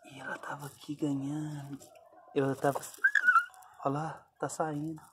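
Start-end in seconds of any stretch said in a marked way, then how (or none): 0.0-1.8 whisper. Real, not acted. Filming dog giving birth quietly.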